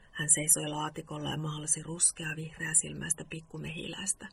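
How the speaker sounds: measured story-reading voice; bedtime story narration. A narrator's reading. Host reads a Moomin bedtime story to listeners, story narration. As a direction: read it out as an evening story.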